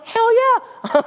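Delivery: high, punchy exclamation; owning up to being starstruck, gleefully; emphatic yes. Real, not acted. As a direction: fire it back with zero shame. Admitting he gets starstruck.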